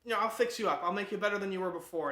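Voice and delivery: loud, high and boastful; a swaggering promise to fix him up; hearty booming reassurance; brash confident doctor. Retold or imitated.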